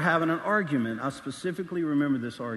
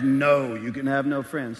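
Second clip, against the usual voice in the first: stern teacher; 3 semitones lower, 4 dB louder, slower than usual. Acted. Teacher answers the student.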